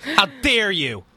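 slow, drawn-out mock indignation; mock outrage. Host teasing a listener who quit, mock outraged. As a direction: feign offence, stretching each word.

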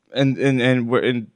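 halting, stumbling restarts; stuttery. Real, not acted. Flustered storyteller apologizing for stuttering over an adrenaline-filled encounter, stuttery. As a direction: stammer over the first words before getting it out. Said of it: "I'm so stuttery telling this".

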